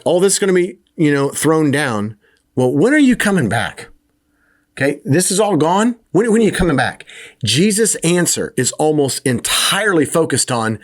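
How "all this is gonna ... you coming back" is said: higher, pleading mock disciple voice; anxious disciples. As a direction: play the worried disciples begging for an answer. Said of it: "So you're like".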